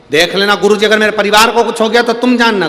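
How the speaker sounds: threatening. Retold or imitated. Disciple threatening the guru.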